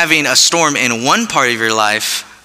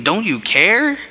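whiny plea; 6 semitones higher, slower than usual. Pretend. Churchgoer whining to God in prayer, higher and pleading. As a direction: whine it up at God like a hurt kid.

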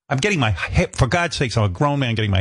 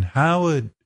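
lightly imitated British producer, pitched up; amateur British accent, higher than usual; 4 semitones higher than usual. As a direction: call out in a rough British accent. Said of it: "She had a British accent".

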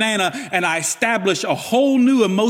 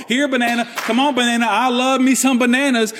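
playful coaxing call; 6 semitones higher than usual. Pretend. Calling a banana like a pet.

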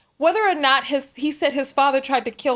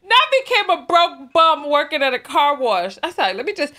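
trying not to laugh; 2 semitones higher, 3 dB louder than usual. Real, not acted. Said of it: "I'm not gonna laugh over it again".

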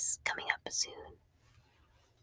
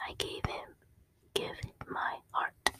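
ordinary delivery

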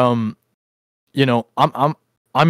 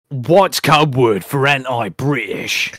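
slow, put-on impression voice; Hemi; slower than usual. Host mimicking Hemingford's question about British code words, in a slow put-on voice. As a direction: imitate him, drawing the words out. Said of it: "Who likes my Hemi impression".

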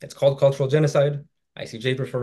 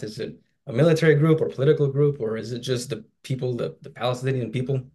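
running out of breath. Real, not acted. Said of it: "Okay, I'm running out of breath".

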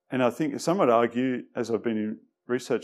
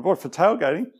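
much higher, louder outraged protest; indignant surprise; 7 semitones higher, 5 dB louder than usual. Retold or imitated. Arrested driver protesting to the officer, outraged. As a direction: squeak out the disbelief.

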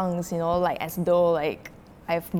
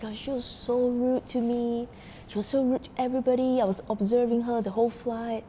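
higher, restrained imitation of a complainer; mock nice; 4 semitones higher than usual. Customer complaining to purser, mock nice. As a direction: tell tales in a falsely reasonable voice. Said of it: "He was, like, so nice".

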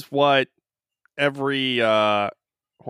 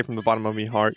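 put-on lightly done Irish accent; a touch of Irish in the voice; Conor McGregor; 3 semitones lower, faster than usual. Host quoting the fighter's apology, light Irish accent. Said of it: "he's Irish, right?".

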